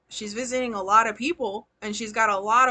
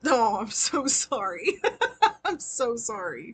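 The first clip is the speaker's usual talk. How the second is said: laughing apology; slower than usual. Real, not acted. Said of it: "I'm not laughing 'cause it's funny".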